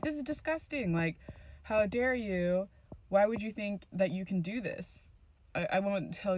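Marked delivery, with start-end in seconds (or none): 0.0-5.1 disgusted, lightly voiced old-fashioned gentleman; indignant gentleman. Brother scolding his evil sister, lightly voiced gentleman. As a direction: scold her like a shocked young gentleman. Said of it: "he talked differently than I talk".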